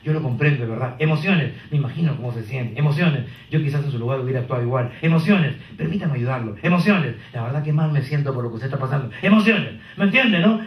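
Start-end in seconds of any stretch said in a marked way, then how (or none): 0.0-9.1 empathetic agent. Shown as a demonstration. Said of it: "Quieren gente que diga".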